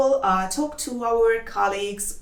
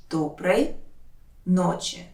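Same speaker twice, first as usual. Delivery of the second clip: careful breakdown of «Доброй ночи»; word by word; 4 semitones lower than usual. Shown as a demonstration. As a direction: lower «Доброй», long pause, «ночи». Teacher separates words for learners.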